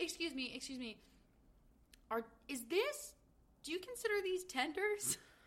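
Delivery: genuine disbelief, baffled, incredulous, polite. Retelling a customer questioning a worker about her order: imitating an incredulous question. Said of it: "she's saying it in, like, incredulity".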